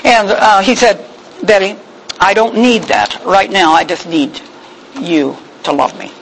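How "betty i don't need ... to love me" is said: low, much softer tender plea. Retold or imitated. Tired husband asking wife to just love him, low and tender. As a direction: ask quietly for love, worn out.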